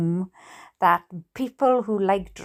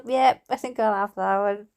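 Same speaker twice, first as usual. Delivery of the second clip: giggling while quoting dad; lightly voiced dad, half laughing; laughing through it. Dad retold, narrator laughing.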